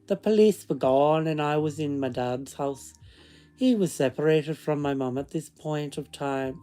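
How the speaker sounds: storytelling in a put-on Scottish accent; fake Scottish accent. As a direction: read it aloud with a mock Scottish lilt. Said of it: "read it in the accent".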